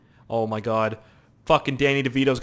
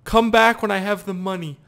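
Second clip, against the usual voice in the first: mocking repeat; 7 semitones higher, 5 dB louder than usual. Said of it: "repeats the shopkeeper".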